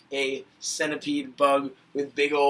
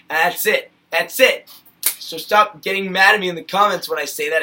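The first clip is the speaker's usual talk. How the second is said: loud, higher, fed-up rant; exasperated rant; 4 semitones higher, 9 dB louder than usual. Real, not acted. Vlogger scolding angry commenters, loud exasperated rant. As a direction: let the frustration boil over. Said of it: "ranting at commenters".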